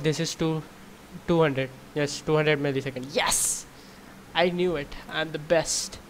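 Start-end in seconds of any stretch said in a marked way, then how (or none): 3.1-6.0 breathy cheer of triumph; celebrating a win; excited. Real, not acted. Hits target score.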